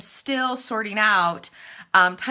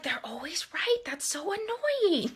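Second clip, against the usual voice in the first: mock annoyed; 8 semitones higher, 8 dB quieter than usual. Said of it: "but I'm like".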